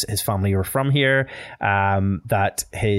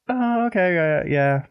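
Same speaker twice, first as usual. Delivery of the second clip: much higher, drawn-out disbelieving oh; sceptical oh okay; 8 semitones higher, slower than usual. Retold or imitated. Host acts out Irish reaction to heritage claims, high sceptical oh. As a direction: squeak the oh, then a flat reluctant yeah. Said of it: "there's a real, like".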